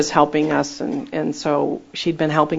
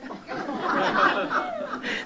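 airy burst of laughter; breathy high laugh; 10 dB quieter than usual. Real, not acted. Preacher cracks up at her own story, breathy laugh.

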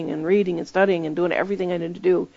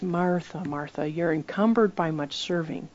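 Jesus to Martha; 6 dB quieter than usual. Retold or imitated. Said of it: "he says".

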